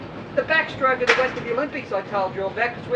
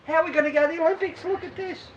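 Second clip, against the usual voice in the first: higher, fast incredulous protest; mock disbelief; 5 semitones higher, faster than usual. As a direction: rattle it off like a doubting kid. Doubting swimmer retold.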